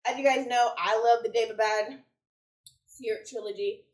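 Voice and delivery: out of breath. Real, not acted. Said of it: "Whew, I'm out of breath".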